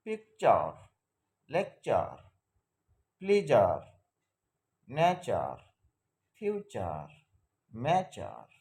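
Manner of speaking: পিকচার, লেকচার, নেচার, each ending in an "-cher" sound between ওয়ার and আর; example words. Shown as a demonstration. Teacher reads English words for students. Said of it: "যেমন দেখি example".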